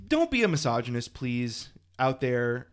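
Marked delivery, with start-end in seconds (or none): 0.1-1.1 put-on theater kid. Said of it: "That was your theater kid coming out".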